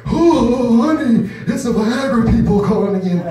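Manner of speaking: put-on high, loud old woman calling; mock old wife. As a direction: call out to her husband like a granny. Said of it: "use different voices".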